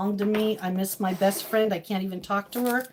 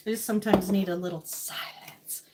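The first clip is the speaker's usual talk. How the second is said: whisper; 3 dB quieter than usual. Real, not acted.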